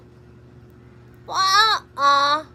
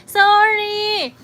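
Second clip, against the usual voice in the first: laughing sorry; 8 semitones higher, 8 dB louder than usual. Real, not acted. Laughing apology on stream.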